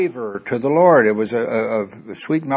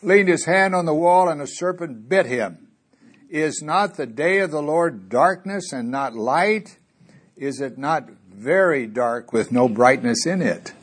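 scripture reading; slower than usual. Acted. Reads scripture aloud.

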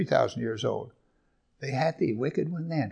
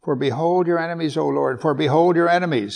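"behold" raised and pressed both times; stress on behold; 3 semitones higher, 5 dB louder than usual. Shown as a demonstration. Preacher repeats the verse for emphasis, stressing "behold". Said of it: "Here's a double behold for emphasis".

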